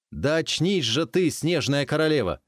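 loud, high urgent call; urgent shout. Acted. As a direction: shout to wake her. Stranger shakes her awake.

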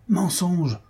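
first "Mensonge" pitched high and sharp; hostile crowd cry. Acted. Brahmans reject his defense, high accusing cry. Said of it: "répétèrent les brahmanes".

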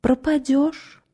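high, slow thin voice; a small high voice, drawn out; thin little voice. Acted. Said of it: "тоненьким голоском".

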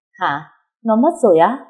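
blurting out in disbelief; stunned at the news of a death; shocked disbelief. Acted. Hears friend died in accident.

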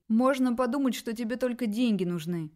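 ordinary delivery, nothing marked

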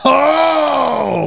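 high, loud gasp of outrage; a real cry at the insult; shocked shout. Real, not acted. Reacting to the insult.

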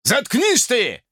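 high, slow barked shout; barked order. Acted. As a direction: bark it, dragging each word. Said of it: "рявкнул негр".

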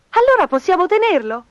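put-on high, loud eager child voice; hopeful children. A narrator's reading. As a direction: ask Dad hopefully like a kid. Children ask dad to keep kitten.

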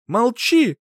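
high, loud shout; mother shouting him down. A narrator's reading. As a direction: cut him off with a yell. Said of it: "крикнула она".

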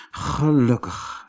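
slow, sighed relief; relieved sigh. Acted. Koosje safely home, slow sigh of relief. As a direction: let it out slowly on a sigh. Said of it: "zuchtte hij".

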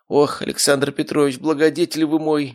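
high, fervent cry of thanks; patient crying out to his benefactor, voice lifted; grateful exclamation. Acted. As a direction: exclaim in overflowing gratitude, voice up high. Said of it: "воскликнул Архип".

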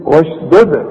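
واشدد ending on a popped, echoing d; qalqalah on second د. Shown as a demonstration. Teacher asking students if they hear it, bounced واشدد. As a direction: bounce only the last د of واشدد. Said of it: "سامع؟".

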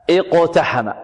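"اقتحم" opened on a glottal "i"; hamza sounded at start. Shown as a demonstration. Teacher shows starting on the word, "اقتحم" with initial hamza. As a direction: begin "اقتحم" with i-, bouncing the qaf. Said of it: "وفي الابتداء".

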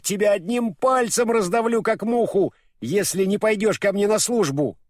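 high-pitched mock threat; retold shout. Урфин mimics the witch threatening him, mock shouting. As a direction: imitate a menacing yell without full force. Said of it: "кричит".

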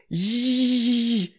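put-on high babyish mumble; high little-girl babble; toddler mumbling. A narrator's reading. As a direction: mumble like a tiny girl trying a spell. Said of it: "бормотала она".

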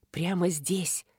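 unvoiced hushed whisper; whispered aside. A narrator's reading. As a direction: breathe it out secretly. Narration whispers discovery.

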